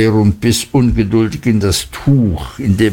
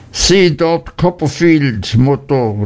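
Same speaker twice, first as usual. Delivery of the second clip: raised, spiteful outburst; furious; 5 semitones higher than usual. Acted. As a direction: point and spit it out in hate. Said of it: "rief Uriah wütend".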